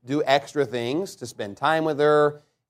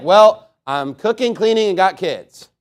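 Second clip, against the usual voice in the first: a louder, higher indignant wife's comeback; wife's retort; 3 semitones higher, 9 dB louder, slower than usual. Retold or imitated. Wife snaps back at husband who only provides, loudly indignant. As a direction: fire back like a put-upon wife.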